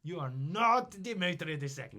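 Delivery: very high, loud outburst; Russian noble unmasking the impostor, shouting; outraged accusation. Acted. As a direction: denounce the fake, indignant. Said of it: "accusing the imposter".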